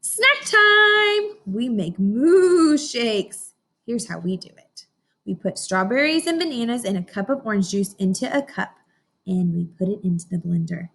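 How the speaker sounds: slow, bright storybook read-aloud; reading to children. Acted. Teacher reading a picture book to her class, slow storybook voice. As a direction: read each line out slowly for the class.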